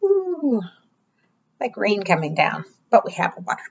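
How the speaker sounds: bright, sing-song storytime voice; kids show host. Acted. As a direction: read it like a preschool teacher. Reading interactive book to children.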